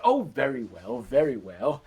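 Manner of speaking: mildly exasperated giving-in; grudging consent. Acted. Mother giving in to her begging son, mildly grudging. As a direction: give in with a touch of impatience.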